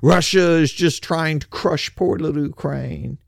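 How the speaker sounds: sarcastic, sing-song pity; mocking whine. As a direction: whine it like a pleading sob story. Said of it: "you notice they always say".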